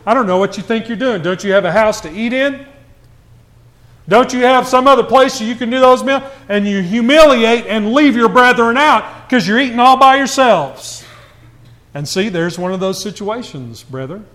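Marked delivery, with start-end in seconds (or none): 0.1-11.0 imitating a mild telling-off; retold scolding. Paul getting on to the church for eating apart, mock scolding. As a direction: take them to task, voice rising as it goes. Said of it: "Paul gets on to him".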